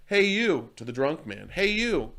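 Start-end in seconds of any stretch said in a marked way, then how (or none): 0.1-0.7 higher, louder call across the train car; retold call of an old man. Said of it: "an old man yells out". 1.5-2.1 retold call of an old man. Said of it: "an old man yells out".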